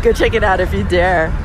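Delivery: lightly spooky, teasing dare; a hint of mock mysterious. Shown as a demonstration. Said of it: "using my spooky voice out here".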